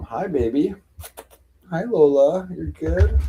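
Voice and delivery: high, sweet greeting for a cat. Real, not acted. Saying hi to her cat Lola, high baby talk. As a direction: coo hello to the cat.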